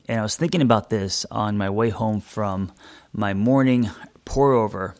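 talking between sips of coffee; words around a sip; while sipping a drink. Real, not acted. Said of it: "that you could hear me sip".

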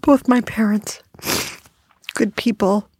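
speaking through real tears; crying. Real, not acted. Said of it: "Sorry, I'm crying".

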